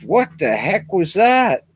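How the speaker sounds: lightly voiced startled Texan. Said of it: "Texas says".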